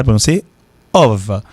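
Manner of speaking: "ov" avec un son V. Shown as a demonstration. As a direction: prononcer "ov" comme V. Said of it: "pourquoi prononcer O, avec F là". ("of" se dit "ov")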